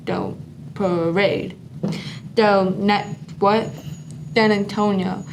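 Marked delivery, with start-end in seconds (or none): 0.1-1.6 slow, softer "So parade"; slow demo. Shown as a demonstration. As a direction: say it slowly while showing the sign. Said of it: "make them look like they're marching".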